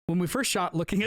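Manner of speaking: Brad Bird. Acted. Podcaster reading a director's quote to co-hosts, mock impression. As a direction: attempt a practiced director's voice and crack up. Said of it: "Someone do my Brad Bird voice".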